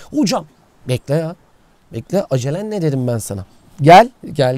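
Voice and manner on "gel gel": loud call to come over; shouting come here across the spot. Real, not acted. Calling someone over.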